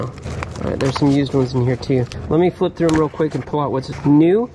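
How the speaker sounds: ordinary delivery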